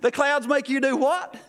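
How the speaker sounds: high, laughing incredulous question; laughing disbelief. Retold or imitated. To the pastor who says clouds make him faint, laughing disbelief. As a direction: blurt it through a laugh, can't believe it.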